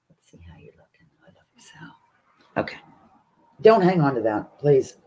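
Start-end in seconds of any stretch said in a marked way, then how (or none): 0.1-2.8 soft breathy whisper to a pet; tender whisper. Real, not acted. Owner whispers to her dog Zoe, tender whisper.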